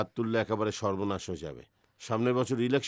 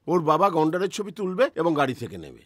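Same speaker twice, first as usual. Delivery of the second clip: ordinary talk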